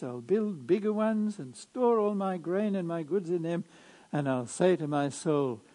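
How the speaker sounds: measured liturgical reading voice; Gospel proclamation. Acted.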